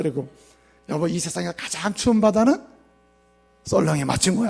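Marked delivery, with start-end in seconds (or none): 0.9-4.0 softer, coaxing retelling of the riddle to her husband; wife playfully quizzing her husband; wife's mock riddle. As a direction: tease the husband with the joke. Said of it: "남편한테 가서 유머를 했대요".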